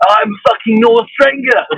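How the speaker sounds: slow, loud Drenger voice; North Drenger impression. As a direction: do the gruff game warrior line, slowly. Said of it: "He speaks like this".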